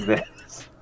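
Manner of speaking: breathy changed voice; altered voice. Shown as a demonstration. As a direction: drop into a new voice. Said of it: "alter my vocal folds to speak like".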